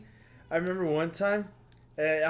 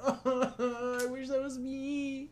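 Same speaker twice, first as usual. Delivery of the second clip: wistful sigh; 9 semitones higher, 9 dB quieter, much slower than usual. Retold or imitated. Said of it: "I was like".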